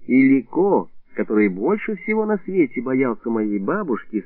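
ordinary delivery

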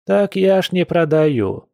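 high, slow, mildly wailing protest; lamenting protest. A narrator's reading. Old woman denying that she sells moonshine, lamenting. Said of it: "запричитала старушка".

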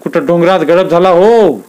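a touch of a crazed lament; mild lament. Acted. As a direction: wail for Filmya, arms spread. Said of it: "हात पसरून म्हणाला".

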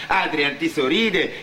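ordinary talk, nothing marked

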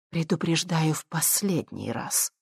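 soft, slow, calm warning; quiet final warning; calmly. Acted. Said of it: "спокойно проговорила Виктория".

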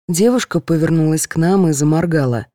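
usual speaking voice

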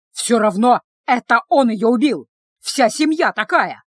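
loud accusing yell; man yelling accusations at the sister. Acted. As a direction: bellow the accusation at her. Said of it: "орал Кышек".

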